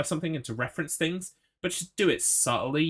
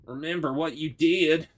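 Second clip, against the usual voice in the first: eerie voice; 4 semitones higher than usual. Pretend. Voicing game's spooky voice.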